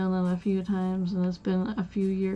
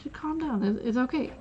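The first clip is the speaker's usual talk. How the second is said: higher, softer reassuring voice; calming coworker; 3 semitones higher, 3 dB quieter than usual. Retold or imitated. Coworker tells a panicking cashier it's fine, reassuring. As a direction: quote a coworker gently calming you down. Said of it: "I'm just sitting there freaking out".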